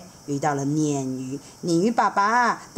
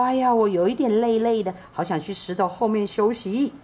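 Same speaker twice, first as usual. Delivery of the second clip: a touch weary, lightly higher; tired seahorse dad; 4 semitones higher than usual. Acted. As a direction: sigh it out mildly tired. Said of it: "他说".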